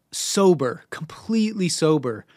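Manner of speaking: breathy whisper, no voice at all; whispered emphasis. Real, not acted. Whispering to the listener that it was all sober. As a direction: drop to a whisper to drive it home.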